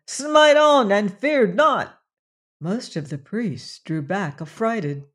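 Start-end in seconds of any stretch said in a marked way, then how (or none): 0.1-2.0 high, loud, slow screamed order; screaming command. Acted. Nam screaming at the priests to kill, high, slow and loud. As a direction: scream it, dragging every word. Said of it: "screamed Nam".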